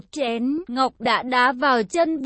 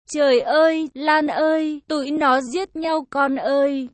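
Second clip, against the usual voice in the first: a mildly raised alarmed call. Acted. Mother calling daughter in alarm, mild cry. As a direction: call to your daughter in a fright. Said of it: "nàng la lên".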